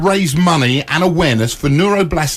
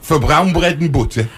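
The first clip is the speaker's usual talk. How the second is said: put-on Yorkshire accent. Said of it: "my family are Yorkshiremen".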